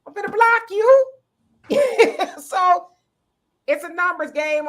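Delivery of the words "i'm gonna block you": mock fed-up, rising to a snap; older man annoyed at an ex on the phone. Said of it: "now he's like".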